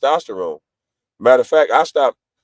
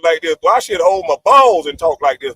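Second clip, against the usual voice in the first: cocky, raised-voice swagger; assertive manly talk; 4 semitones higher than usual. Shown as a demonstration. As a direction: talk big, like a proud man. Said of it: "women like when I talk like this".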